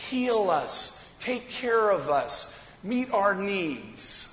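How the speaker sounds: slow, drawn-out imitated plea; retold crying out. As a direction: stretch it out like lepers calling for help. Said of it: "they're crying out and saying".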